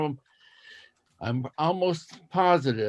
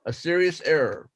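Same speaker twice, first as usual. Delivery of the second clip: slow school dictation. Shown as a demonstration. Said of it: "I will read it twice".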